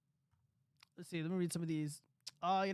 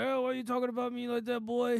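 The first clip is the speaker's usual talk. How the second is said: higher, louder, quicker mock of his dad scolding; 5 semitones higher, 4 dB louder than usual. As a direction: play the offended father calling him boy. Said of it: "so he's gonna be like".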